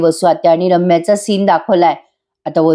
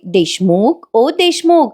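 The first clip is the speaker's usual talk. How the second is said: coaxing call; 3 semitones higher, slower than usual. Retold or imitated. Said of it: "पार्थला लाडीगोडी लावायला लागते".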